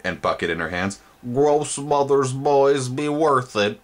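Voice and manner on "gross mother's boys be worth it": high, slow, louder monstrous matron; high, slow creature mother voice; gross mother voice. Acted. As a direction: savour it like a proud monster mother.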